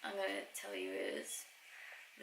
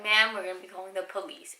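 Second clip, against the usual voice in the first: raised warning; 6 dB louder than usual. Retold or imitated. Staff warning the customer.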